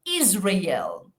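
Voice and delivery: Israel whispered with a voiced Z; whispered model word. Shown as a demonstration. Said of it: "La Z representa la S sonora".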